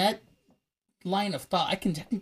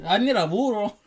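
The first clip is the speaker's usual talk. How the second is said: put-on louder hammy Mexican accent; mock Mexican accent; 5 semitones higher, 5 dB louder than usual. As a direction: play the old western Mexican stereotype. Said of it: "the racist Mexican voice".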